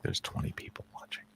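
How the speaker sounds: mock stage whisper; leaning in to whisper. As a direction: hush it like a secret. Teasing stage whisper to partner.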